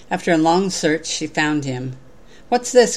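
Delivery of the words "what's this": high, loud startled cry; surprised cry. A narrator's reading. King startled as the quilt maker finds him, high loud cry. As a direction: blurt it out, higher and louder. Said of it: "cried the king".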